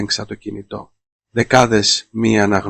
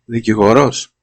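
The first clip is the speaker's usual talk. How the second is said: louder, rising disbelieving question; incredulous scoff; 5 dB louder than usual. Acted. Petros mocking Anna's claim about the lawyer, scornful rise. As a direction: spit the word Δικηγόρος back as a sneering question. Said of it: "φύσηξε ο Πέτρος".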